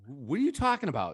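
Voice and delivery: mock clueless, quick question; playing dumb. Club DJ stalling the teller at the booth, playing dumb. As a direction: imitate someone feigning ignorance, quickly. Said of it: "playing stupid".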